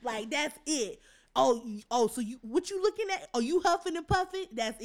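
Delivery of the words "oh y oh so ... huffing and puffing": high, taunting parent voice; mock scolding parent. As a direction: mimic a parent catching you huffing.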